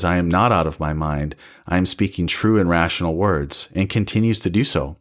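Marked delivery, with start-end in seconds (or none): 0.0-3.7 calm, steady reply, pitched lower. Retold or imitated. Paul answering the governor's insult, calmly and evenly. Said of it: "he just calmly says".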